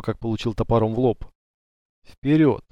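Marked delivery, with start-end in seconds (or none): 2.0-2.6 ВПЕРЁД said dryly, falling at the end; dry reply. A narrator's reading. Leader answering his companion's question about the way, dry. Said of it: "сухо ответил Паша".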